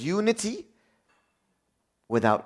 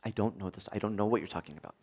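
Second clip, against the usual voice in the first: dismissive; 7 semitones lower, 10 dB quieter, faster than usual. Retold or imitated.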